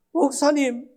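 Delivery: scripture recited through tears, half-acted; mock tearful plea. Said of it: "그걸 하면서 울어요".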